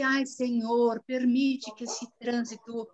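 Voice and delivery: slow, drawn-out mock plea to the Lord; slow retold prayer, half-sung plea; imitating a pleading prayer. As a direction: replay the desperate prayer in traffic, slow. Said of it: "Eu comecei".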